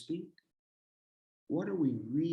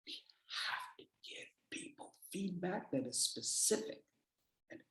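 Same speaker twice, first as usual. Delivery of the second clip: whisper; 5 semitones higher, 11 dB quieter than usual. Shown as a demonstration. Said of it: "unvoiced whisper mid lecture".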